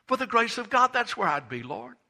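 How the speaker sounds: preacher's climactic shout; impassioned cry. Real, not acted. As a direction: lift the repeat to a peak. Repeated, climaxing.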